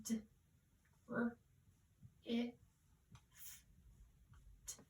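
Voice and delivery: each sound of "drift" said apart with pauses; segmented sounds. Shown as a demonstration. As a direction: tap out "D, r, i, f, t" one phoneme at a time. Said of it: "five letters".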